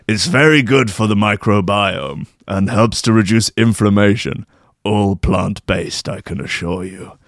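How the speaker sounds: a lightly voiced mysterious stranger reassuring; shadowy figure. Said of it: "heard that voice from somewhere before".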